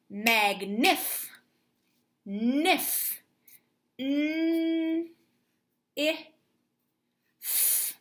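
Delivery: Magnif then nif, mm held high, i, and f breathed; sounding out. Shown as a demonstration. Teacher stretching sounds for young spellers, slow. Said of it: "focus in on".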